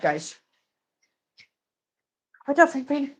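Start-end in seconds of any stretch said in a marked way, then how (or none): 2.5-3.1 higher, sing-out hello to a pet; pet-talk greeting. Real, not acted. Host greeting pet Franklin, higher pet-talk voice. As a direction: greet the animal in a put-on higher voice.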